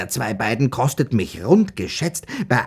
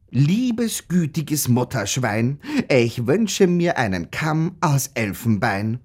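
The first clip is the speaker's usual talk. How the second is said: poem recitation. Acted. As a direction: recite your own verse for effect. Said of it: "sehr lieb gereimt habe".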